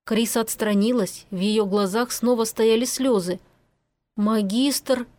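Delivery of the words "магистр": slow, hard, deliberate warning; harsh. Acted. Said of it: "жёстко повторила Киара".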